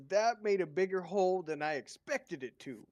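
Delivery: laughing quote. Retold or imitated. Retold grandson quote.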